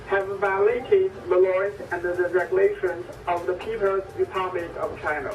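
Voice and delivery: crackly ship radio transmission; formal warning over the radio; marine radio. Real, not acted. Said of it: "exchanged radio challenges".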